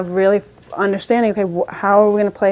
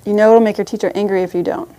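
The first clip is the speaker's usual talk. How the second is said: scolding parent; 2 semitones higher, 7 dB louder, faster than usual. Retold or imitated. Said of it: "instead of".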